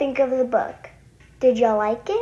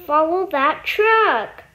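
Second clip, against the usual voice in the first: cried out; 4 semitones higher, 4 dB louder than usual. A narrator's reading. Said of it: "cried Buzz".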